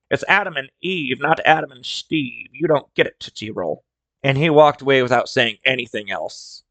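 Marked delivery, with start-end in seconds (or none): 0.1-3.8 flat. Retold or imitated. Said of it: "the old man turns to me and says flatly".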